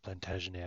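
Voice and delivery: Plantagenet with a French ending, -ay; French-style Plantagenet. Shown as a demonstration. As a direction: say Plantagenet as French, silent final t. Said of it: "I think it's French".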